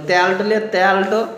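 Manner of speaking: imitating rural grandparents' Bengali dialect; country Bengali with broad tel as tyal. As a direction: lightly mimic an elder's village dialect. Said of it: "দাদুরা বলে".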